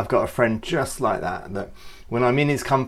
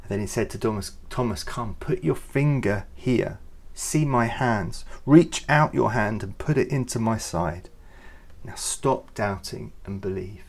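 gentle. Acted. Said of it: "Jesus came and said".

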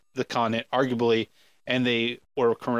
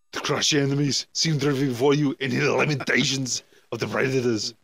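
Conan quote. Retold or imitated.

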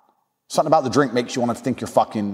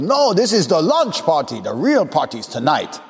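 mock French accent, pitched up at first; French party host; 3 semitones higher than usual. French host explaining the real party, mock French accent. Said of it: "some French prick".

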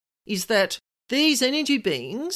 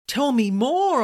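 louder, eager request; pushing for more, keen; eager interest; 4 semitones higher, 5 dB louder, slower than usual. Retold or imitated. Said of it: "getting really, really interested".

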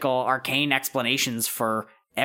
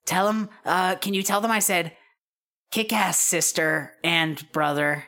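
slightly raised character voice; Wendy; 5 semitones higher than usual. Acted. Friend sending encouragement to siblings, lightly raised voice. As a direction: dictate a cheer for someone to pass on. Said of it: "Wendy says".

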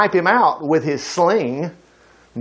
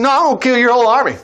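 rushed, fast retort; 5 semitones higher, much faster than usual. Retold or imitated. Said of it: "He said".

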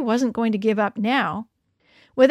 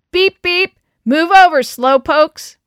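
higher, much louder mocking call; teasing shout; 6 semitones higher, 10 dB louder, slower than usual. A narrator's reading. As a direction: jeer at them as you zip past. Boys taunting while zipping past.

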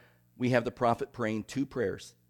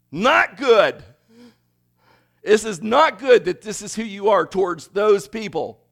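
loud, higher, indignant grumble; Jonah's bitter protest; 5 semitones higher, 8 dB louder than usual. Retold or imitated. Jonah protests God's grace to those people, indignant and loud. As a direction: spit it out like a resentful prophet. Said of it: "And he's thinking".

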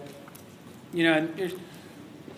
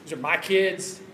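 principal's voice. Retold or imitated. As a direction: claim the school like a lightly mocked owner. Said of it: "they even talk like this".

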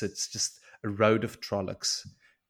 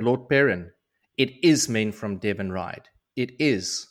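urgent insisting; 5 dB louder than usual. Retold or imitated. Boy insists to Perrin.

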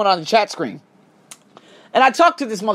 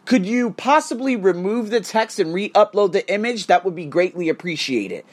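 mock polite support email; 4 semitones lower than usual. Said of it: "just says".

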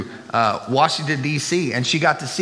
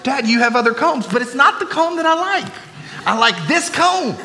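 mock squabble; 10 semitones higher than usual. Kids answer, dad retorts.

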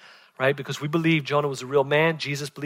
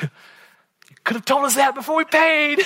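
laughing protest; 11 semitones higher than usual. Retold or imitated. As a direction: laugh it out in disbelief. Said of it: "And I'm like".

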